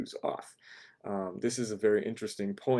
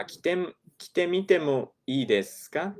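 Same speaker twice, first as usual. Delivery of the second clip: imitating customer; 7 semitones higher, faster than usual. Shown as a demonstration. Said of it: "this is the phrase we talked about".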